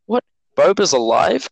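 mildly mocking a puzzled fan; questioning surprise. Podcaster imitating casual fans in season two, puzzled surprise. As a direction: voice a casual viewer's startled question. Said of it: "Question mark".

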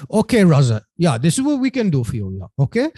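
imitated German accent, pitched a little up; Norbert. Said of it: "for my German accent".

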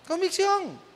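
Convicción said high at normal volume, falling at the end; high falling restatement. Real, not acted. Pastor repeating his point to the congregation, high falling close. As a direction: settle Convicción down with a firm high fall.

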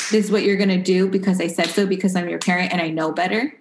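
quick, lightly imitated authoritarian parent; mock bossy parent. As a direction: lay down the law in a rush, half-acted. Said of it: "giving her a choice versus".

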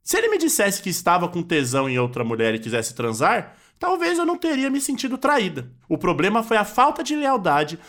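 a hint of a wronged wife reading her statement to the press; Maíra Cardi. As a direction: read it as a hurt but proud influencer. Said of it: "você é a Maíra Cardi".

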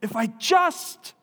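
high, loud choked-up retelling of Oskar; tearful Oskar. Retold or imitated. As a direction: near tears, voice straining high. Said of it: "And Oskar says".

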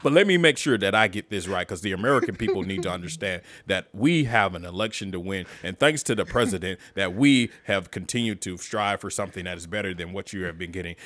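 lightly voiced long-winded debater; imitating filibustering politician. Mocking Pence's debate filibuster to a co-host, imitating a politician. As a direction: keep talking on like a stalling candidate. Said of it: "that motherfucker was out there filibustering. Just talking".

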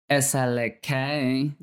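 slow, light Southern drawl; attempted Southern twang on each letter; Southern accent. Shown as a demonstration. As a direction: try spelling in a Southern accent. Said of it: "do it in a Southern accent".

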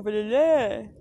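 put-on loud toddler squeal of a nickname; baby-talk call to big brother; imitating little daughter. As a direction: call out like a tiny child. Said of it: "E ela, quando ela vê, ela fala".

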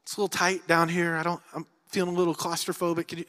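breezy, offhand ask for help; mock casual request. Joseph in the pit, wrongly imagined as calmly asking out. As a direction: play it light and unbothered, like a mild inconvenience. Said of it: "pleading ... is not like".

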